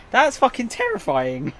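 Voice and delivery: really grossed out, drag it out; horrified exclamation. Real, not acted. Streamer reacts to gross fact.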